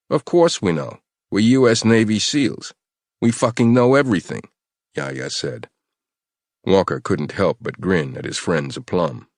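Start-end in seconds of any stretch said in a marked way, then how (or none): 0.1-4.4 cocky bravado. Acted. Yaya boasts, intimidating captive.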